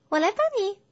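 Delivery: high, eager bear voice; helpful. Acted. Bear offers to knock for piglet, helpful. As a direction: offer help readily, pitched well up. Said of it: "小普热心地说着".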